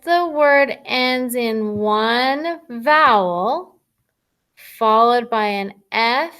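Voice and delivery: reading the rule aloud slowly, word by word; careful, drawn-out reading of a spelling rule. Shown as a demonstration. Teacher reading the rule slowly to the class. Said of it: "let's read this rule".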